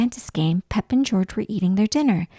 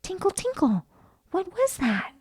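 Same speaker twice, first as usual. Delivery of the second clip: magical tinkle; 9 semitones higher, 4 dB quieter than usual. A narrator's reading. Magic fairy arriving.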